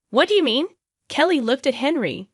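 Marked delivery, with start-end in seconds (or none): 0.1-0.7 sharp, high, startled ask; startled question. Acted. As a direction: hit it startled and demanding. Kelly startled, demanding.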